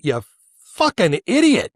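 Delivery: real fury at the man; angry insult. Real, not acted. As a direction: hurl it at him. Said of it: "I'm angry".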